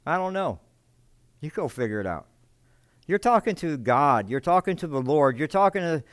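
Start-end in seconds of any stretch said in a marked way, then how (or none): 0.0-2.3 arrogant Cain, mocked. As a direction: toss it off dismissively, imitating Cain. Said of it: "it's the arrogance that Cain had".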